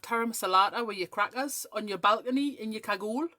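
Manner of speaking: lightly mimicking a friend's accent; Michelle Johnson. Teasing a friend with her own words, in a mimicked accent. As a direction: tease with a put-on accent on each food and clothing word. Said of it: "I do her accent back at her".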